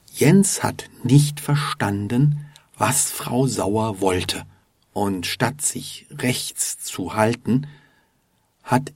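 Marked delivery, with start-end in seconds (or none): 0.1-7.7 slow, carefully separated words; slow delivery. Shown as a demonstration. Teacher retells the misunderstanding for learners, slowly. Slow take, later repeated.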